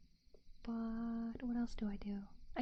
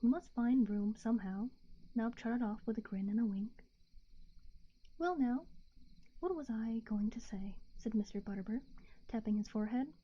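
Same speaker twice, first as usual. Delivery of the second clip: hushed bedtime story narration; whispered story reading; 3 dB louder than usual. A narrator's reading.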